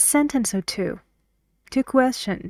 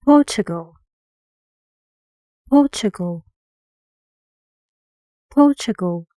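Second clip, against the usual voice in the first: "Portugal" with a loud "Por", lighter ending; stressed first syllable; 6 dB louder, faster than usual. Shown as a demonstration. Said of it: "guess which syllable is stressed".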